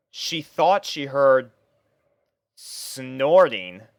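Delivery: usual speaking voice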